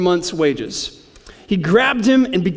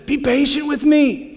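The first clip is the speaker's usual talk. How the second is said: lightly voiced pleading servant, pitched higher; begging servant; 7 semitones higher than usual. A narrator's reading. A hint of the servant begging his master for time. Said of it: "he begged".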